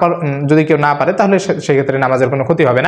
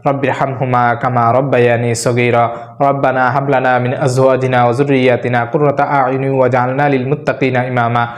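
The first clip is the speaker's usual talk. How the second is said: recited Quranic prayer; 4 semitones lower than usual. Shown as a demonstration. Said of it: "কোরআনের শ্রেষ্ঠ দোয়া".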